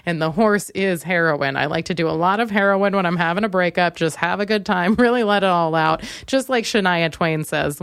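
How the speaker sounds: normal talking voice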